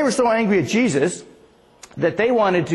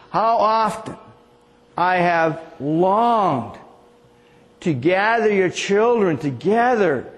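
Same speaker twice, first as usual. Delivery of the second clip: tender lament; much slower than usual. Acted. Quoting Jesus' lament over Jerusalem.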